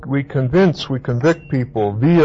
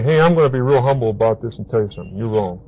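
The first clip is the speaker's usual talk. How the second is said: nice rebuke; 2 semitones lower, much faster than usual. Retold or imitated. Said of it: "you can do it real nicely".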